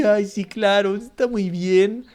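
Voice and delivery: mocking a meek pastor who agrees to everything; mock soft-hearted pastor. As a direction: drag it out like a spineless yes-man. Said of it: "la imagen de un pastor bonachón".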